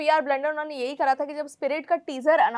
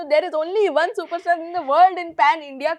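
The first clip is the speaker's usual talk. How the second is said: very slow, sweeping boast; mock overblown boast; 3 dB louder, much slower than usual. Mocking the actor's world-wide claim, slow and grand. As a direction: stretch it out to sound absurdly grand. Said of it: "पर आपने जो".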